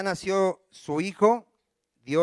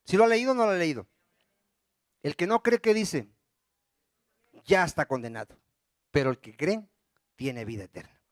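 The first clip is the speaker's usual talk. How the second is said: normal talking voice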